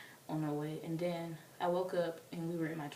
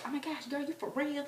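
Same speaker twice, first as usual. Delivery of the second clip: put-on ghetto girl; 9 semitones higher than usual. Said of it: "it was a ghetto girl".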